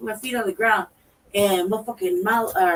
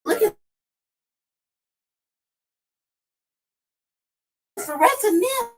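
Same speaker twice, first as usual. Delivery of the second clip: amazed exclaim; 10 semitones higher than usual. Retold or imitated. Seeing rats pour over wall.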